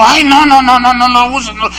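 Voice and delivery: mock legalist. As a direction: parody a scandalized legalist. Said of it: "para el legalista es".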